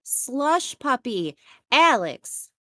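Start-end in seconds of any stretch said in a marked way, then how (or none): 1.7-2.5 calling out. Real, not acted. Calling to friend in bathroom.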